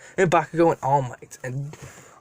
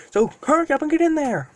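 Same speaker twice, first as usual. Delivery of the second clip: urging dragon; 10 semitones higher than usual. Acted.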